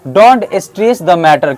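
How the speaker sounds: slow, careful teacher model; slow model sentence. Shown as a demonstration. Teacher slowly models a phrase before the class repeats. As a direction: drill it slowly so they can follow. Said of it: "क्या बोलेंगे?".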